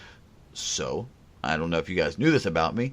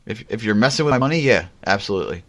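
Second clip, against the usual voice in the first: fast, louder, insistent; emphatic; 3 semitones higher, 5 dB louder, faster than usual. Real, not acted. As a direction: push it hard and fast. Emphatic about money.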